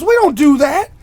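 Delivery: high, loud scolding shout; yelling manager. Retold or imitated. Manager telling off the kid at Wendy's, hammed-up yelling. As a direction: mimic a boss laying down the rule. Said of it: "started yelling at him".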